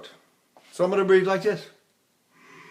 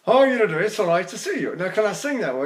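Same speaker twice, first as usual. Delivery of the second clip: Shakespearean actor exercise; faster than usual. Shown as a demonstration. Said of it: "exercises for Shakespearean actors".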